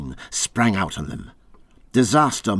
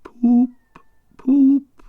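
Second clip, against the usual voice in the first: faint murmur; 7 dB louder than usual. Acted. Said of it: "he faintly murmured".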